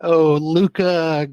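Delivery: put-on drawn-out Italian accent. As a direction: say the name like an Italian. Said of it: "doing an Italian accent".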